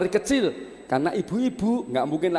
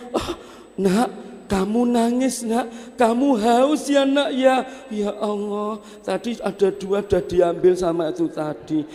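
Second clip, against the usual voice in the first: put-on mother to baby; 5 semitones higher than usual. Mother soothes thirsty crying baby, high coaxing.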